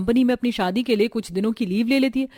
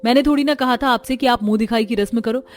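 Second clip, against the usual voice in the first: defiant retort. Acted. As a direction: throw the rituals back at her. Bride defies mother-in-law.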